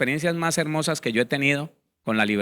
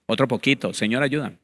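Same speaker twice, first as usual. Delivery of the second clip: pleading for help, then dropping low on the excuse; a half-hearted plea that gives itself away; mocking a prayer that wants to keep the sin; mock insincere prayer; 3 semitones lower than usual. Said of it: "No, así no es".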